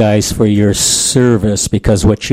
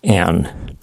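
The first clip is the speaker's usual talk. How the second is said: slow letter-by-letter spelling; slower than usual. Shown as a demonstration. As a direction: spell each letter slowly. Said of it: "Norwegian spelling".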